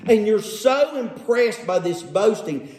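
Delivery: drawn-out sarcastic admiration; mock how impressed they are. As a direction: lean sarcastically on the praise. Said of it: "Can you hear the sarcasm?".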